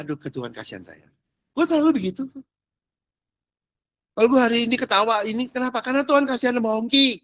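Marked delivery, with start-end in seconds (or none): 0.1-1.1 very soft, low plea; doa memelas. Acted. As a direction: pray it quietly, almost to yourself. (doa pelan dan rendah, memohon belas kasihan)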